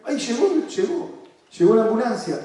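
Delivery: high, excited pretend announcement; mock delighted cry. Therapist in the game as the ambulance arrives, excited cheer.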